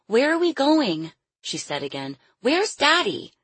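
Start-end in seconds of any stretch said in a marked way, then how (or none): 0.1-1.1 put-on high, scared young girl; a lightly voiced frightened child; little girl voice. 2.4-3.3 put-on high, scared young girl; a lightly voiced frightened child; little girl voice.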